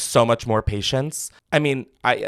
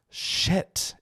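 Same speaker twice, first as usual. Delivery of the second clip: breathy whispered shit; whispered curse; 5 semitones higher, 10 dB quieter than usual. Retold or imitated. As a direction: whisper it in dismay. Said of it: "And I was like".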